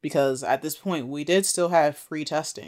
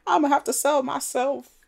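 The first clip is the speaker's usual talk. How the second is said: mock despair; 10 semitones higher than usual. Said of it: "She's like".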